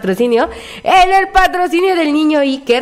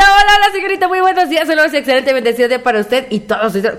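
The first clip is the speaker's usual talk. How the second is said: overdone sweet hello from a fan; cheery greeting voice. Retold or imitated. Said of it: "Dice por acá la chaparrita". (imitando a la fan con saludo exageradamente alegre)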